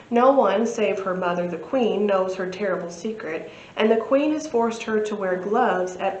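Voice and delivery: lightly dramatic book-blurb reading; measured narration with a touch of drama; synopsis read-aloud. Acted. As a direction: read the blurb like a storyteller, clearly and evenly.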